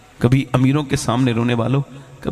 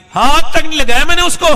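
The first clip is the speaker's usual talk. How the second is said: very high, loud anguished confession; anguished cry; 12 dB louder than usual. Retold or imitated. Repentant sinner cries to God in prostration, high loud anguish. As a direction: cry out in remorse.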